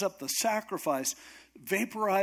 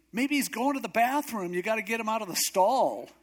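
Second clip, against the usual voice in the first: heckling; 6 semitones higher than usual. Retold or imitated. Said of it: "he goes, it gets worse".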